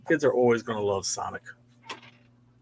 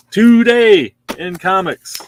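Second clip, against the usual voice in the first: slow, louder, higher showman announcement; grand announcer flourish; 6 semitones higher, 9 dB louder, slower than usual. Acted. Host announcing the Marvel stack, showman style. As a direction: boom it out like a show host.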